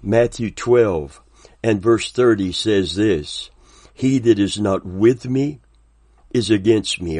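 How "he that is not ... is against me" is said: deliberate scripture reading with a weighty pause; slow, clear reading. Real, not acted. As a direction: read it clearly, pausing to let it sink in. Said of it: "I want to read it slowly, clearly".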